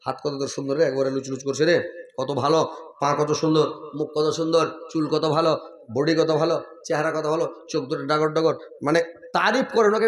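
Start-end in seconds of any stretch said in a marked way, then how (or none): 0.1-8.5 mock tender praise. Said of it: "স্ত্রীটা ভালোবাসেন".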